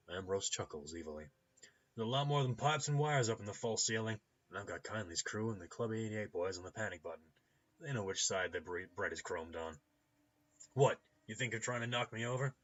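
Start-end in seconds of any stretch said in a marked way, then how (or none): 1.9-12.5 loud warning with bravado; boisterous clinic owner. Acted. Clinic owner warning of his hidden defences, boisterous. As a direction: warn the visitor off, loudly.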